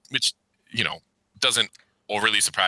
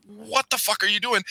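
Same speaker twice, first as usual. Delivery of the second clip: higher, disbelieving mock outburst; incredulous; 12 semitones higher than usual. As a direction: yell at the screen in disbelief. Reacting to daughter leaving.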